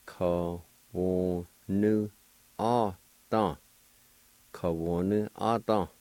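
"ka, wo, nu, ah, da" run together as one word; Cherokee word together. Shown as a demonstration. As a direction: join "ka, wo, nu, ah, da" smoothly. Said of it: "Then together".

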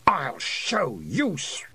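slow unvoiced hiss, cut off; hissing whisper. A narrator's reading. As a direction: hiss the threat through the teeth. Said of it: "she hissed".

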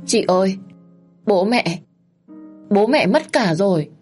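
high, loud tearful wail; sobbing. Acted. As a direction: cry out the news. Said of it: "mếu máo".

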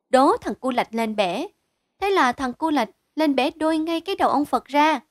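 put-on high, quick child's voice; eager child storyteller. Child explains to the men why the Buddha shakes his head, eager child. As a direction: chatter excitedly like a youngster telling tales.

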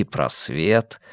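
ordinary delivery, nothing marked

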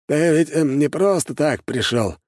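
high voice, probing question; suspicious old shopkeeper. A narrator's reading. Old shopkeeper probes why the clan head came, suspicious. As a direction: feel out the visitor in a high, doubtful voice. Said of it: "подозрительно сощурился старый лавочник".

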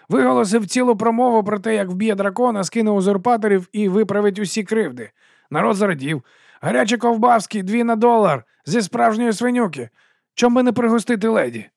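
chummy sausage seller greeting the watch; fast-talking street vendor. Acted. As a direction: sell it with a grin you can hear. Narrator voices Dibbler.

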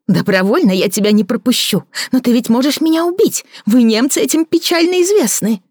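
a bitter woman mocking her lover; Victoria mocking. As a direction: sneer at his fancy words. Victoria provoking.

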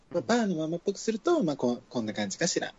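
bar mama voice. Shown as a demonstration. Trying a bar mama-san voice, lightly done. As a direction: act like a bar's mama-san, understated.

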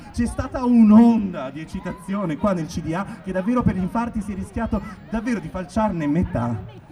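rising, declaimed performance poem; slam poetry. Acted. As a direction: build up like a slam poet. Performs second satirical poem. (declamazione da poetry slam)

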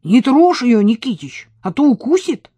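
loud cheeky warning; mock-warn the old man; teasing teen. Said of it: "посоветовал кто-то из пацанов". (дерзко, громко)

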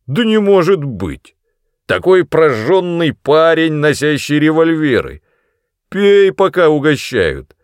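high, loud mocking taunt; mocking father. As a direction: jeer at the cowardly son. Brodie taunts son. (насмешливый громкий отец)

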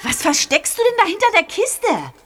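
loud. Acted. Streit im Keller.

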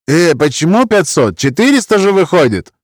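buy peace with flattery; pleading Roma man. Acted. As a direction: Roma accent, eager to please.

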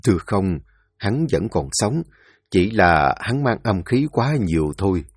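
put-on deferential old physician. Thái y bẩm báo quan. (giọng thái y trầm, khúm núm bẩm báo)

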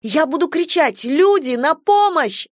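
put-on high, alarmed girl's cry; yelling for help. A narrator's reading. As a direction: call out for help, building in urgency. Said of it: "заорала девушка". (отчаянный крик о помощи)

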